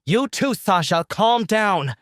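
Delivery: high, loud scolding shout; insistent yell. Acted. Ruby ordering enraged Sasha to calm down, shouting. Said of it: "Ruby stomped her foot".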